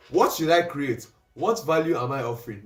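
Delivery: brighter, punchier read of the question; energetic tone. Shown as a demonstration. Coach demoing an upbeat tone to students. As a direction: sell it with energy. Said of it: "what tone do you want to say it in".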